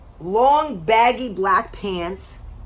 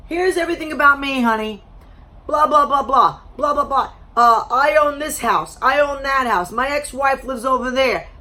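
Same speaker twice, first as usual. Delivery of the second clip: mocking imitation; 5 semitones higher, 4 dB louder than usual. Mocking date's monologue.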